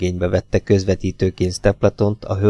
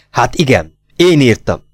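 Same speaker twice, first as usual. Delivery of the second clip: a louder, forced admission; exclaiming; 2 semitones higher, 3 dB louder than usual. Acted. Woman cries out her confession to the detective, exclaiming. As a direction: push the confession out in one burst. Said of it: "kiáltott fel ismét az asszony".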